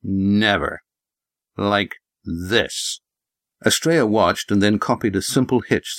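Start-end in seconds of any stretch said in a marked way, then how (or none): 0.0-3.0 very slow, talking-down farmer; condescending old prospector. Acted. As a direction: spell it out like to a fool. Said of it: "His voice was condescending".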